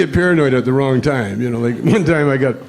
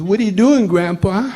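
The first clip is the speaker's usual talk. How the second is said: cute little voice; 4 semitones higher than usual. Retold or imitated. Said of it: "That cute little voice".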